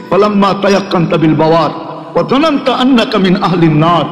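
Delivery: Arabic recitation. Acted. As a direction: recite the verse with reverence. Quotes Arabic divine words.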